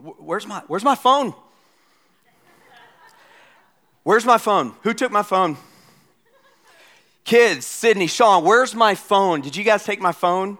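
loud, high frantic calling; yelling across the room. Retold or imitated. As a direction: shout for the kids to help. Dad hunting phone, calling kids.

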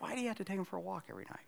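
high, soft, rushed mock question; imitated family complaint. Family questions dad about the nightly walk, imitated complaint. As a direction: rattle it off quickly as the puzzled family. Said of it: "And my family's like".

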